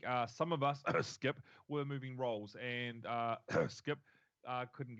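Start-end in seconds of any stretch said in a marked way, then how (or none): 0.9-1.4 name disguised as a cough; mock cough covering a jab; fake cough. Name slipped inside fake cough. 3.5-4.0 name disguised as a cough; mock cough covering a jab; fake cough. Name slipped inside fake cough.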